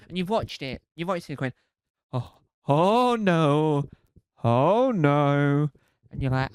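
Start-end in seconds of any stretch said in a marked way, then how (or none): 2.1-5.7 slow, louder drawn-out oh no; mock dismay. Viewer watching a builder horror show: slow mock dismay. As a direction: groan it in theatrical dread.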